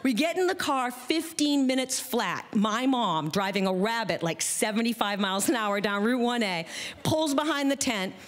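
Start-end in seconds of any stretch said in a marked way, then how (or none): none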